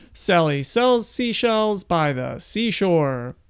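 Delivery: measured, deliberate tongue-twister recital; mic-test recitation. Shown as a demonstration. Speaker testing the camera's audio with a tongue twister, measured recitation. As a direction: recite it slowly in repeating rise-and-fall tunes.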